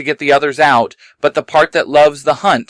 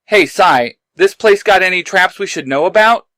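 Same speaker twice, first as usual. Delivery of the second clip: higher, calling ahead; calling back; 5 semitones higher than usual. Acted. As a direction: call back over shoulder. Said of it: "Jace calls back".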